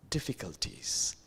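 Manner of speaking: whispered trail. Real, not acted. Trailing key word.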